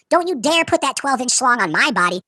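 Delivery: high-pitched, drawn-out protest; mock shout. Waking patient to his surgeons, mock outraged shout. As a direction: cry it out high and slow, without full volume. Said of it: "Shout at the doctors".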